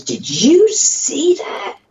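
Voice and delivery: breathless whisper, high and slow; hushed disbelief from the back seat; son's hushed question. Retold or imitated. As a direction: whisper it in awe, stunned. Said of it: "my son looked at me and goes".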